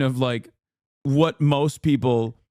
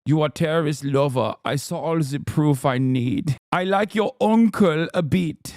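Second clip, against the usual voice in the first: mock chat reading; 2 semitones higher than usual. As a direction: read it like a goofy foreign chatter. Rereads chat message mockingly.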